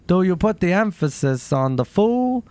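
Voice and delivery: slow, oddly stressed impression of a quirky actor; hint of a deadpan eccentric actor, slowed way down; Christopher Walken. Asking a rock musician how to say the band name, in a slow deadpan impression. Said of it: "I'm gonna try to do Christopher Walken".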